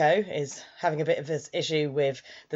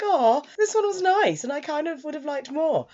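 wistful fondness; 9 semitones higher than usual. Retold or imitated. Reviewer left wanting more story, cooing wistfully. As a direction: coo it with a touch of longing. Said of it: "left me feeling a bit like".

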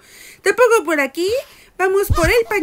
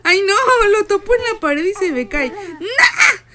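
loud, laughing dismay; laughing panic; 4 semitones higher, 5 dB louder, slower than usual. Real, not acted. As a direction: laugh through the mishap. Se le cae el bebé. (risa nerviosa al tirar al bebé)

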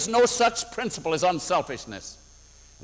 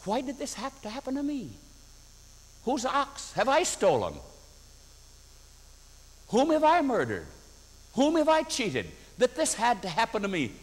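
self-pitying lament; 6 semitones higher than usual. Retold or imitated. Self-pity lament to God.

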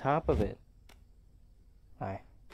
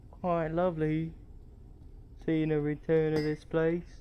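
higher-pitched, put-on British accent; mock-British, pitched up; 5 semitones higher than usual. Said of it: "I'm doing a British accent".

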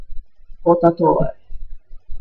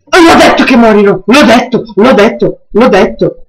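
loud, exasperated I-told-you-so; frustrated yelling; 3 semitones higher, 5 dB louder than usual. Real, not acted. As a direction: yell it, then let it fade. Predicting death, frustrated repetition. (frustrato, urlando)

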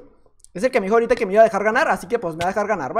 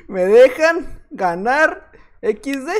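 slow typing read-out; much slower than usual. Shown as a demonstration. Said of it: "vamos a escribir lo mismo".

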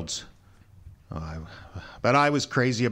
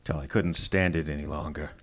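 broken confession; 3 semitones lower than usual. Acted. Husband admitting his torment to Wolfe, low and broken. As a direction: confess it as if crushed.

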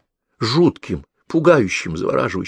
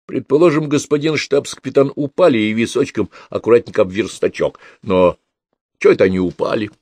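put-on a canny old policeman leading the detective on; shrewd old overseer; 3 semitones higher, 4 dB louder than usual. Overseer explaining the knife grip to the detective, folksy and louder.

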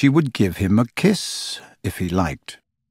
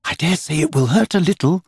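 warning; 7 semitones higher than usual. A narrator's reading. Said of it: "she warned him".

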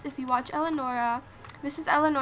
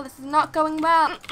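louder exasperated repeat; 6 dB louder than usual. Real, not acted. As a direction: say it again, louder and fed up. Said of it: "repeated louder, second take".

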